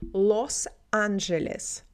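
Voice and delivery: Los Angeles said slowly with a hard L; slow, firm hard L opening Los Angeles. Shown as a demonstration. Teacher gives an example word, slow hard L. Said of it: "L is harder".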